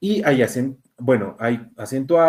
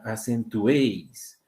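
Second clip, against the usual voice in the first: "acentuéis" repeated slowly, é held long; stressed open vowel; 2 semitones lower, much slower than usual. Shown as a demonstration. Teacher pointing out the strongest vowel, drawn-out é. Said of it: "Acá está la mayor fuerza de voz".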